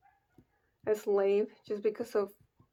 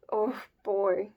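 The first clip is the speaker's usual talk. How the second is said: hushed dismay. Real, not acted. Reacting to the mother's death.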